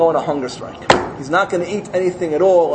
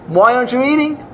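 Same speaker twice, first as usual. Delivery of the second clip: mild annoyed question; 7 semitones higher than usual. Acted. Farmer asks again, louder.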